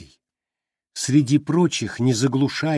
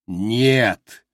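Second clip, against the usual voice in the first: booming no. A narrator's reading. Glimung rejecting Joe, booming. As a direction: boom it out. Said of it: "прогудел Глимунг".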